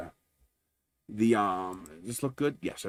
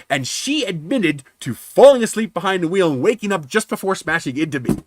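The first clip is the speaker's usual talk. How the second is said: raised, emphatic retold accusation; petty and nasty; 5 semitones higher, 4 dB louder than usual. Driver listing the confessions to adjuster, nasty. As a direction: lay out each damning admission forcefully. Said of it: "I decided to get petty and get nasty".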